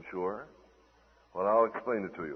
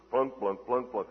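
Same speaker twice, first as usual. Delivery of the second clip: evenly spoken harp plunks; plucked-string imitation. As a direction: mimic two strings plucked in turn. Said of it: "the two strings on his harp".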